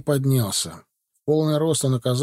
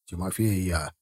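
automatic reply; 6 semitones lower, 5 dB quieter than usual. A narrator's reading. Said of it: "чисто машинально ответил".

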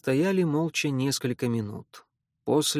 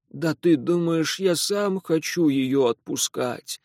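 pleading; 2 semitones higher, slower than usual. Acted. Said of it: "взмолился Антон".

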